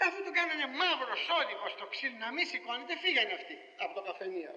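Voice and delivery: words through real laughter; laughing while telling. Real, not acted. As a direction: giggle through the story. (γελώντας ενώ διηγείται)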